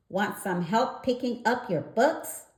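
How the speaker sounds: put-on high, bright little girl frog voice, giggling; a sweet little frog girl offering help; Frogolina's voice. A narrator's reading. Frogolina greets Froggy, a lightly voiced girl frog.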